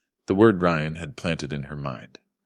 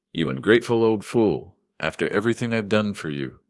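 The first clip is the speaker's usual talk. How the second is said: angry son-in-law; 5 semitones higher than usual. Acted. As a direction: spit the insult at the old man. Son-in-law angrily insulting father.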